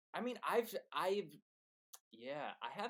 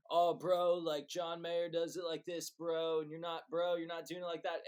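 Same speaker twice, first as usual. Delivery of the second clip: higher, nagging know-it-all bro; mock online bro; 5 semitones higher, 4 dB louder than usual. Guest mimics commenters nitpicking the guitar challenge, mock bro. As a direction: imitate a pedantic guitar bro correcting someone. Mocks online critics of their playing.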